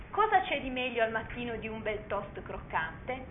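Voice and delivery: a touch of dreaminess, soft; dreamy voice. Acted. Husband at breakfast praising the toast, softly dreamy. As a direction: muse about the toast as if half-dreaming. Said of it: "con voce sognante".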